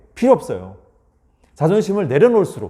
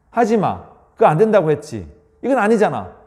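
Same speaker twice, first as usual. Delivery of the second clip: mock scolding spouse, sharp and higher; scolding nag; 4 semitones higher than usual. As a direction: nag your partner with exclamations. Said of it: "지적 형태의 말투 또는요, 명령 형태의 말투".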